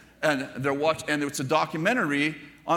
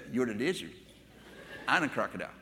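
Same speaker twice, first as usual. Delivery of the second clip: softer, lower, retold child's ruling; matter-of-fact child, retold; 6 semitones lower, 7 dB quieter, faster than usual. Granddaughter correcting her brother in the game, quiet insistence. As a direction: lay down the game's rules quietly, imitating a child.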